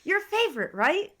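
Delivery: Amanda voice. Acted. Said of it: "my Amanda voice".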